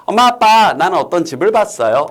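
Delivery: a hint of an eager child; child telling parents. Child telling mom and dad about a house, lightly acted. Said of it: "이런 식으로요".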